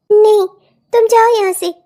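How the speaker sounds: loud rude brush-off; sharp loud no, then go away; angry refusal. Acted. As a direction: shove her away with the words. Bride rejects mother-in-law rudely.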